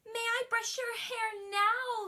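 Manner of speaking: high, sweet pleading queen voice; gentle queen. Acted. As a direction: coax the child sweetly as the queen. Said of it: "said the queen".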